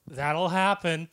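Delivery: slow, offhand brush-off; drawn-out careless shrug of a reply; dismissive shrug. Retold or imitated. Mom dismissing the mess on my shoes, slow and offhand. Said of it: "looked at me and went".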